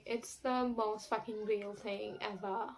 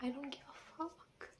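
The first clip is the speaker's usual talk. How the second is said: dismissive; 4 semitones higher, 12 dB quieter than usual. Retold or imitated. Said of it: "But then I was like".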